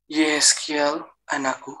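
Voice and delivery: slow, drawn-out call to a son; calling divine voice. Retold or imitated. Heavenly voice calling the man as son, slow call. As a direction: stretch out the name as an imitated calling voice. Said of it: "suara itu bilang".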